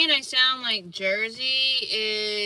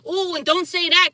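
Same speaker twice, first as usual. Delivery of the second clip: high, loud mock scandal; mocking scolder; 8 semitones higher, 7 dB louder than usual. Speaker mocks people policing words, mock scolding.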